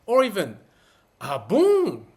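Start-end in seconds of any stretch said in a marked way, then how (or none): 1.2-2.1 "Ah bon?" louder, with a surprised lift; startled ah bon. Shown as a demonstration. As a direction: react with real surprise. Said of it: "with surprise".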